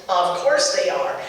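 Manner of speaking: lightly put-on sing-song mom humoring her child; a hint of the sweet indulgent mother, slowed on the question; mother humoring her daughter before the cab, mildly patronizing; patronizing mommy voice. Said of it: "my best patronizing mommy voice".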